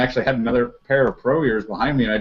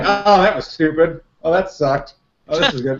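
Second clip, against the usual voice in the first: play-acted, self-scolding running commentary; 4 semitones higher than usual. Retelling how a shooter talks to himself during a match: imitating Pat Kelly yelling at himself. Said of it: "You hear him yelling at the whole".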